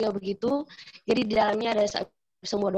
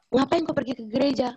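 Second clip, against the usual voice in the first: retold puzzled question, pitched higher; heran; 4 semitones higher than usual. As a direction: ask it in mild surprise, voice lifted. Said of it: "Terus saya heran, saya bilang". (bertanya heran dengan nada lebih tinggi)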